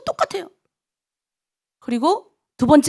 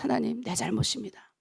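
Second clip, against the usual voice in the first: quiet confession; 3 semitones lower, 13 dB quieter than usual. Retold or imitated. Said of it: "그때부터 제가 그랬어요".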